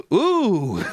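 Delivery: high laughing ooh that breaks into a squeal; surprised whoop. Real, not acted. Host seeing the outfit pic, squealing laugh. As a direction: let a delighted laugh burst out high.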